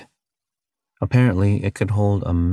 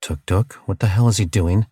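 urgent. Acted. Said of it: "asked with a newfound urgency".

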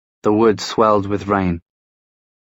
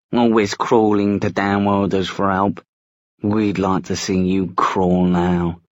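drawn-out menacing taunt; slow sneering threat; slower than usual. Acted. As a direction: lean on each word with contempt. Werewolf taunt.

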